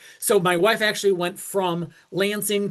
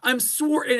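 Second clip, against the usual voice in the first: put-on higher, apologetic Canadian accent; 5 semitones higher than usual. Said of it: "so cute Canadian accent".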